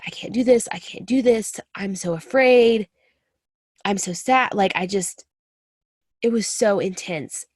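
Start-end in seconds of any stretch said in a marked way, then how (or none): 0.1-4.5 mildly raised, distressed retelling; retold hysterical sobbing. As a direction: imitate a tearful breakdown, without real sobs. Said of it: "sobbing hysterically, just like".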